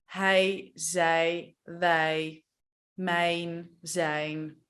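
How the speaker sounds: hij, zij, wij with short ij; short ij sound; Dutch ij. Shown as a demonstration. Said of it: "it becomes I".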